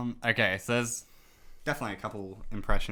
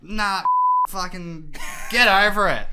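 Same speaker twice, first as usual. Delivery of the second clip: dismissive bloke; 8 semitones higher, 6 dB louder, slower than usual. Retold or imitated. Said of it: "I was just like".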